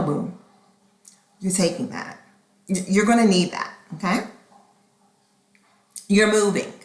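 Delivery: firm scolding mom. Retold or imitated. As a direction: lay down the law to her. Scolding her daughter.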